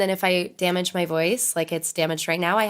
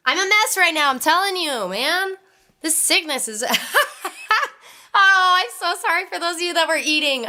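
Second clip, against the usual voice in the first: laughing, higher and louder; giggly apology, higher, louder; blubbering; 10 semitones higher, 4 dB louder than usual. Real, not acted. Laughing apology while sick.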